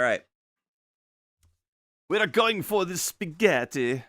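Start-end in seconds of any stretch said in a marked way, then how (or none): 2.1-4.0 high, bright announcing voice; high excited host-style announcement. Real, not acted. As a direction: call it out like a show host.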